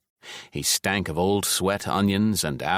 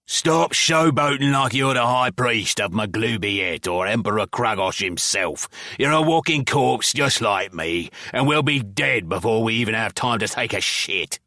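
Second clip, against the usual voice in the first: hissed menace; 3 semitones higher than usual. Acted. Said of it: "stuck his hooked nose in my face and hissed".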